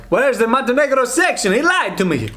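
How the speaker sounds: high, put-out mock complaint; hammed-up betrayed visitor; mock disappointed tourist. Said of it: "And they're like".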